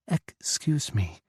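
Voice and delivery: put-on slow, lightly accented "Excuse me"; Czech-accented English. Tipsy Czech woman repeats herself to Ethan, slow and accented. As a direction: stretch "Excuse me" with a Czech lilt. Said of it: "she said again".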